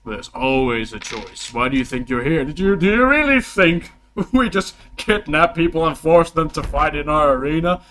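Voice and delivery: loud, emphatic arena ruler; lecturing king. Acted. Game master voicing the king challenging a captive, loud and scornful. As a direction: press each question with mock incredulity.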